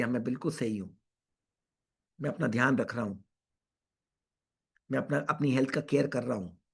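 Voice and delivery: quiet, low, measured affirmation; calm self-affirmation. Pretend. Doctor models affirmations said to oneself each morning, calm self-affirmation. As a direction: say it softly and steadily to yourself.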